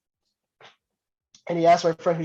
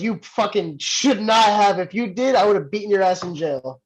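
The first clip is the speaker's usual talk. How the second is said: 1 mock angry trainer; 4 semitones higher than usual. Trainer scolds him.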